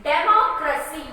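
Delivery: democracy with MO leaned on; teacher's model democracy, stressed on MO; stress on vowel. Shown as a demonstration. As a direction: hit the O in democracy. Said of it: "we are stressing with the vowels".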